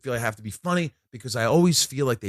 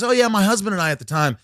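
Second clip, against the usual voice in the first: gushing fan; 8 semitones higher, 4 dB louder than usual. Retold or imitated. Retold star's chatty, gushing reply.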